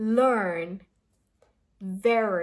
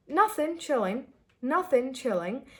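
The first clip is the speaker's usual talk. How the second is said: "Nothing, chilling" said easy and low at the end; casual answer; 4 semitones higher than usual. Shown as a demonstration. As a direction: answer lazily, letting it drop. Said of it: "it'll go low".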